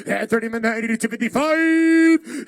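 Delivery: loud auctioneer call. Real, not acted. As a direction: bid called out loud and held. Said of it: "repeated call".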